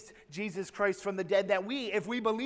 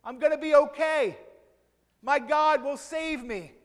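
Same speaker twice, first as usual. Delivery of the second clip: louder, higher stubborn insistence; defiant refusal; 5 semitones higher, 6 dB louder than usual. Acted. Drowning man calling up to the helicopter, defiant refusal. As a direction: refuse the ladder with faith.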